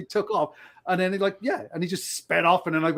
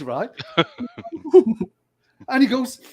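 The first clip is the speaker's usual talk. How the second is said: usual speaking voice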